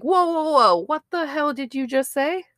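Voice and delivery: high-pitched mock disbelief; shocked. Podcaster recalling her reaction to the clip, shocked. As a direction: act stunned by what you heard. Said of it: "I was like".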